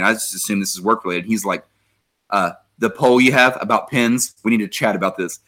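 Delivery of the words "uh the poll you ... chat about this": retold in earnest, understated gravity; dead serious. Coworker stopping by to discuss a pen poll, dead serious. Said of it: "he's dead serious".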